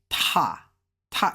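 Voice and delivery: TA with a puffed T; like "take". Shown as a demonstration. Teacher explains the T to learners, TA like take. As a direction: burst the T of TA as in take. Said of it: "it's like you saying take".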